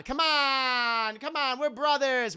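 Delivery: high, urgent wheedling; frantic pleading. Retold or imitated. Bradley pleading with betrayed Tank, frantic and high. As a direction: beg him to relent.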